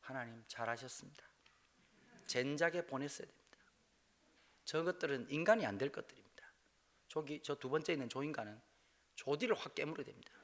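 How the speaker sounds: hushed, breathy whisper of a secret spiteful thought; inner voice whisper. Retold or imitated. Preacher confessing his private thoughts to the congregation, whispered. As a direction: whisper it as if only to yourself. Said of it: "난 속으로 그럴 것 같아".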